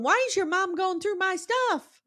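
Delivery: very high, strange put-on affected voice. Retelling a show scene, imitating Jenny: way up high. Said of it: "Jenny always talks like this".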